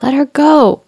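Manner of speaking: high, loud mock Hook roar. A narrator's reading. Peter impersonating Hook to free Tiger Lily, loud roar. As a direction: bellow the order as a fake captain. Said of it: "Peter roared, still sounding like Hook".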